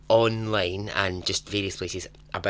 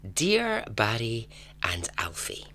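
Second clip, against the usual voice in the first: slow reading; slower than usual. Shown as a demonstration. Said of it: "It starts".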